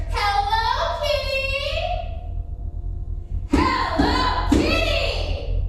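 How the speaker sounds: yelled up the stairs. Acted. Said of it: "yells up the stairs".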